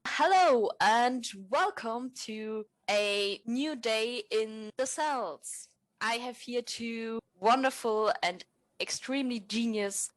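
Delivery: slow, drawn-out host welcome; mock talk show host. Host opening the improv expert panel, slow showy welcome. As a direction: welcome the audience like a hammed-up TV host.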